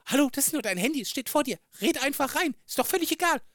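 high, exasperated pleading retold; exasperated father. Father retelling how he urged his daughter, high and exasperated. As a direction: throw up your hands at your daughter, pitch climbing. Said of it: "Ich so".

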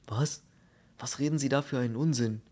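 quick, mildly indignant retort; a touch of outrage; agitated protest. Acted. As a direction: snap back at the nonsense. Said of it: "starrte Steiner aufgewühlt an".

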